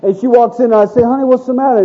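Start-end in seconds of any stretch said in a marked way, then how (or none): 1.0-1.8 higher, gently worried question; lightly acted parental concern; concerned father. Dad to his upset first grader, gently concerned.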